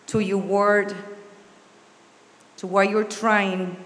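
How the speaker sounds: measured prayer with long pauses between phrases; spoken prayer. Real, not acted. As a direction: lead them in prayer, phrase by phrase. Leads congregation in prayer.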